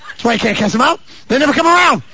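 high, rising to a loud finish; exclaimed punchline. Real, not acted. Preacher explains why they can't be cast out, rising exclamation. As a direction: build to a high, loud payoff.

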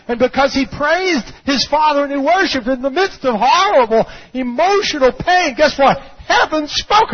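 high, emphatic pulpit proclamation; full-force preaching. Acted. Preacher declares the testimony to the congregation, full-force preaching. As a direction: preach it hard, climbing to a high cry.

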